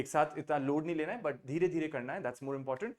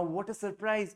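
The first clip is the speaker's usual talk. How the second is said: higher-pitched show of amazement; surprise; 4 semitones higher, much slower than usual. Shown as a demonstration. Teacher demonstrating surprise in English, amazed. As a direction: model a surprised exclamation. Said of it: "हैरानी तो दिखाएंगे ना".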